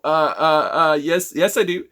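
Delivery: hesitant, stumbling reply; flustered and unsure, stalling; unconfident stammer. Shown as a demonstration. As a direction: caught off guard, stammering back. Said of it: "I don't have any confidence".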